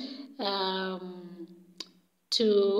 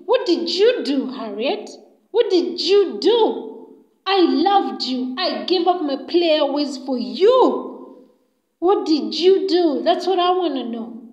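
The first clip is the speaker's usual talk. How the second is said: louder, emphatic acted reproach; indignant confrontation; 3 semitones higher, 4 dB louder than usual. Fred confronting Harriet, loud hurt indignation. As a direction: demand an answer, hitting the words hard.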